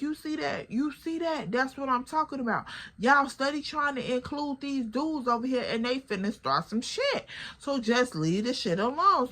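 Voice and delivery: I told you so, with heat; exasperated. Retold or imitated.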